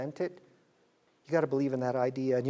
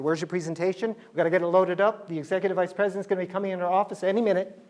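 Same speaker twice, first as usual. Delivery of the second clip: mock frantic assistant; 3 semitones higher, 3 dB louder, faster than usual.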